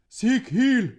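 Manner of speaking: high, loud barked order; loud command to the hound; shouted command. A narrator's reading. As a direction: sic the dog with a sharp yell.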